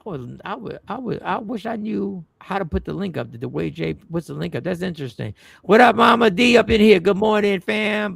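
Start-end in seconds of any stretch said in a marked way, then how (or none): 5.6-8.1 big loud hello to the fam; loud greeting. Real, not acted. Host greeting the audience, loud and hyped. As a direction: call it out to the whole room.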